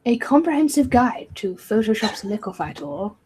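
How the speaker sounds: lightly posh, fancy reading voice. Acted. Reading a search result aloud to the co-host, fancy posh accent. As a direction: read the title with a touch of posh accent. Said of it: "Fancy voice. Posh accent you had there".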